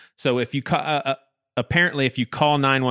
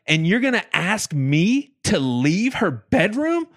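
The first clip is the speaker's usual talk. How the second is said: higher, indignant scolding; retold fury; 5 semitones higher than usual. Grandson scolding the officer who sent him out, higher and indignant. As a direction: demand answers, pitch climbing. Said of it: "I was so angry".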